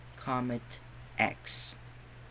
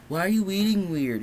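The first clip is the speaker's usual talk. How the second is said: high, loud imitation of a snapping teen; mock yell; 8 semitones higher, 6 dB louder than usual. Son yelling at his sister over dinner, mock yell. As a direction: bark the question at her like a bratty son. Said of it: "pretty much yells at her".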